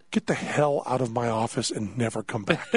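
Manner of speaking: cold, controlled retold anger; contained anger. Doctor throws him out.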